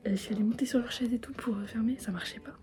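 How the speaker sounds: hushed whisper late at night. Real, not acted. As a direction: whisper so as not to wake anyone.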